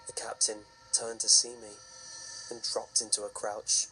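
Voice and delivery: story narration. A narrator's reading. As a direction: tell it like a campfire horror story.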